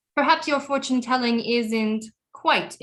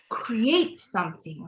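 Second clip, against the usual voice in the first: whispered to herself; 3 dB quieter, slower than usual. Acted. Trailing off to herself.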